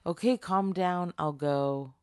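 backing down fast from a threat; nervous placating. Pretend. Scared driver placating smoke man.

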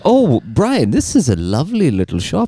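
lightly played British tea shop man; a British gentleman admiring a shop; British accent. British man welcomes Brian to a tea shop, British accent. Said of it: "How about a British man working at a tea shop?".

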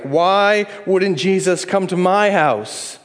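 mock jealous complaint, drawn out; jealous grumble. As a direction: act out the envious follower.

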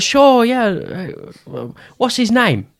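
high, put-on voice for a quoted reply; high-pitched mimicry. Star agrees to sign fan's card, high mimicking voice. Retelling star's reply to request.

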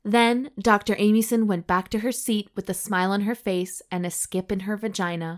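measured audiobook-style reading; story narration. A narrator's reading. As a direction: read the racy tale out deliberately. Reads the story aloud.

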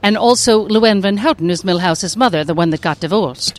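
lightly voiced cartoon mother; a touch of a divorced cartoon mom; Luann Van Houten. Shown as a demonstration. Actress rattling off her characters, light mother voice. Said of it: "thank you very much for doing the voices".

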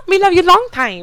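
high, loud mock Asian accent; a hammed-up Asian accent parody. Podcaster parodying the actress's bad Asian accent, high and loud. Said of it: "doing an Asian accent".

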